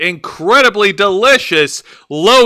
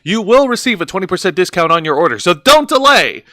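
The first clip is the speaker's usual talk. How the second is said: ad read. Acted. Promo code pitch.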